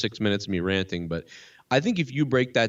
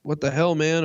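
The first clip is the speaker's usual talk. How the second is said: stunned Chris Rock; 4 semitones higher than usual. Retold or imitated. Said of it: "Chris Rock was like".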